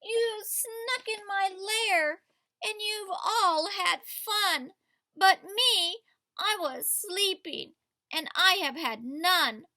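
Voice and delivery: high, slow whiny bear; lightly voiced sulky bear; upset bear. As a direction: complain like a grumpy woken bear. Bear complains in story.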